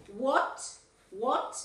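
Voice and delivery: "what" with a rounded o, like "wot"; correct vowel in what. Shown as a demonstration. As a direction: repeat "what" as "wot", each rising. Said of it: "se nos escapa decir what".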